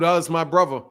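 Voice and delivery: British "brother" with a V for the TH; Dillian White. Retold or imitated. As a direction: quote it with British "bruvva". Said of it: "Dillian White said that".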